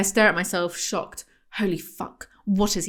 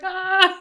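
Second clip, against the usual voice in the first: mock orgasm cry; 10 semitones higher than usual. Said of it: "Someone just like".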